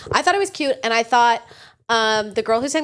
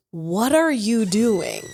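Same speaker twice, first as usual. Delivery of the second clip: slow puzzled question; much slower than usual. Retold or imitated. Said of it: "with the question in mind".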